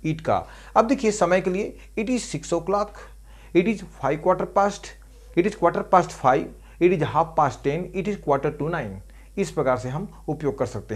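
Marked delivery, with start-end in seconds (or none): 2.0-8.9 slow dictation. Shown as a demonstration. Teacher dictating English example sentences.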